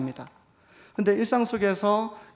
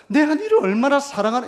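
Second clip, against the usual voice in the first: mock-angry shout breaking into a laugh, higher and louder; angry scolding; 9 semitones higher, 7 dB louder than usual. Pastor mocking a parent shouting their love, laughing scold. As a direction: yell it, then laugh at yourself. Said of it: "막 화내면서 막 야단치면서".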